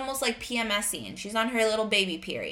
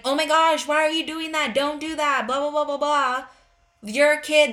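loud, high-pitched mock scolding; exasperated parent; 5 semitones higher, 6 dB louder than usual. Parent overreacting to an anxious child, exasperated mock scolding. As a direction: rattle off a hammed-up telling-off.

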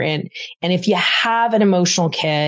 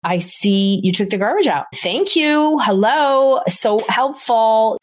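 gushing, higher praise, slowing on the last words; over-the-top praise; 4 semitones higher than usual. Shown as a demonstration. Parent praising kid for taking garbage out, gushing. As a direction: lay the thanks on thick. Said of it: "You want to say".

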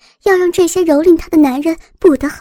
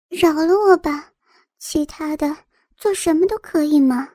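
coquettish pleading. Acted. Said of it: "林燕妩媚地说道。".

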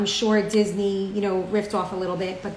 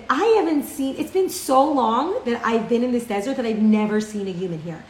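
a hint of an amazed giant, slightly raised; mildly astonished giant voice; lightly voiced giant; 2 semitones higher than usual. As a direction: giant marveling, only lightly put on. Giant amazed to see human.

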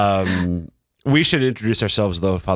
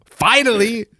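high, loud exclamation of relief; excited cry; 14 semitones higher, 3 dB louder, slower than usual. Real, not acted. Cohost teasing the priest for finally showing up, excited cry. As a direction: cry it out like it took forever.

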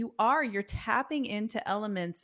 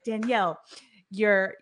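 lightly voiced coach, a bit louder; coach's scene-setting; 2 semitones higher, 9 dB louder than usual. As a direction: paint the scene with playful energy. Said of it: "you were like".

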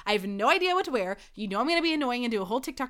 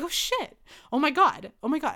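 panicked excitement; 4 semitones higher than usual. Retold or imitated. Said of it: "I was like".

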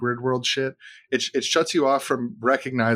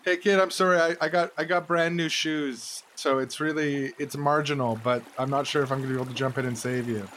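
calling out; 4 semitones higher than usual. Pretend. Calling to drowning kid.

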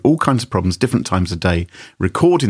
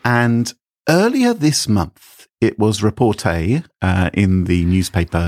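fake French accent. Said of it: "this fake French the whole way through".

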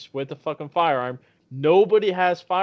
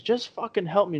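higher-pitched retold demand; mock desperate demand; 6 semitones higher than usual. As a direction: imitate her frantic plea, higher voice. Retold woman demanding help, attacking.

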